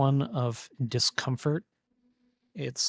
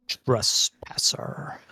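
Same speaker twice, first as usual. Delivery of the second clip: whisper; 5 dB louder, much slower than usual. Acted. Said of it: "you hear it say".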